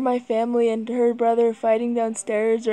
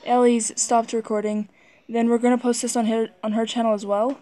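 out of breath. Real, not acted. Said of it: "Sorry, I'm out of breath".

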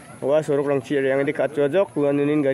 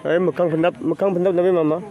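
raised voice, pitched up, calling across the house; 5 semitones higher, 5 dB louder than usual. Real, not acted. Calling out loudly to mama in the house. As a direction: call out to mama so she hears.

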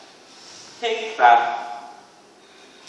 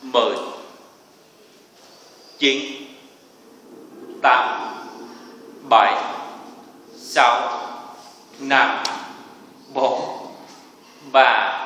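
barking gym coach; much slower than usual. Real, not acted. Instructor counting down a hold.

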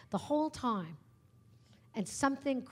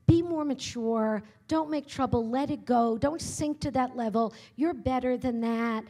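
mimicked scolding; 6 dB louder than usual. Voicing scolding told to girls.

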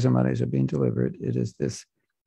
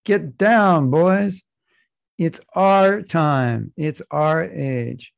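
commanding Gaur and Nitai; 3 semitones higher, 3 dB louder, much slower than usual. Acted. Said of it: "I said".

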